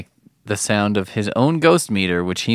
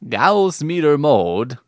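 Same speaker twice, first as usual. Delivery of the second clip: mock the accent, drawn out and higher; slow, exaggerated imitation of an odd accent on "Gauss"; mimicked accent; 6 semitones higher, 3 dB louder, slower than usual. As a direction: parrot the odd accent in disbelief. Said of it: "What is this accent?".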